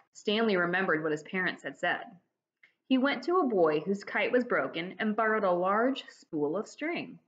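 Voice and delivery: lively read-aloud storytelling; expressive children's book reading; story narration. A narrator's reading. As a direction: tell it like reading to kids. Reads the story to the class.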